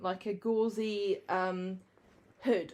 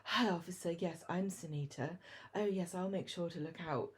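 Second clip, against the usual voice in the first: softer, sultry sly villainess; posh villain voice; 5 dB quieter than usual. Retold or imitated. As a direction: purr it like a scheming posh villain. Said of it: "sexy, posh villain voice".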